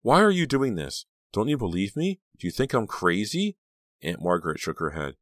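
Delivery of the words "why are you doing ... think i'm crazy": high, pleading questions, loud at the start; distraught. A narrator's reading. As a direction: plead in disbelief, pitched high. Distraught girl challenges her aunt.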